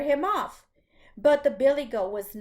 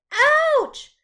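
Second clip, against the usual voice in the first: a high, loud yelp of ouch; loud cry of pain; 13 semitones higher, 7 dB louder than usual. Acted. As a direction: yelp as if bitten. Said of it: "said the billy goat".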